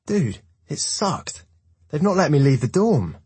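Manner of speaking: whiny complaint. A narrator's reading. Hartman complaining to Bram.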